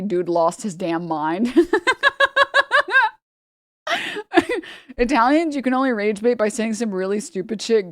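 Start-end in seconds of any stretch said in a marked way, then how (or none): 0.0-1.5 laughing. Real, not acted. Laughing at friend's reaction. 1.6-3.1 high-pitched laugh at his own joke; high burst of laughter. Real, not acted. Laughing high at his own Greek food joke.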